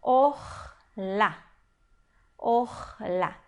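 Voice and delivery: "orla" slowly, split or-la, opening on O; demonstrated reading. Shown as a demonstration. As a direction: read out "orla" syllable by syllable, O then A. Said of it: "nós vamos ler como". (pronúncia didática de "orla", sílaba por sílaba)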